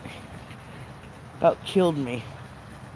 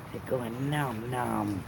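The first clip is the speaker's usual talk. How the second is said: nom nom chomping; 6 semitones lower, 6 dB quieter, slower than usual. Pretend. Mimicking fish eating.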